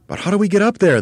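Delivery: very high, loud questioning voice; puzzled monkey chorus. A narrator's reading. Monkeys asking their leader, puzzled.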